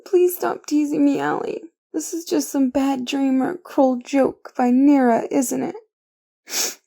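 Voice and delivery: tearful disbelief. Acted. Overwhelmed, near tears.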